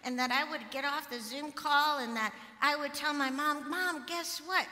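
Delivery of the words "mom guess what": imagined excited news. Pretend. Pastor imagines telling her mom the happy news, excited.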